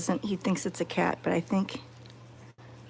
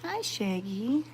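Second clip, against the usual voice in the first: soft greeting; 6 dB quieter, slower than usual. Real, not acted. Gentle greeting to the dog.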